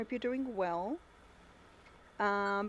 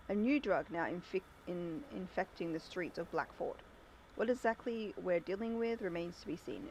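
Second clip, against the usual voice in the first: measured newsreader delivery; news read. Acted. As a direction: read it like a radio bulletin. Reads the newspaper report aloud.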